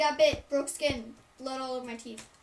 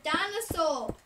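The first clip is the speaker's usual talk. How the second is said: a hint of kindergartner insisting; little kid; 4 semitones higher, 5 dB louder, slower than usual. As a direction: kiddie pronunciation, louder. Kindergarten self repeats childish word.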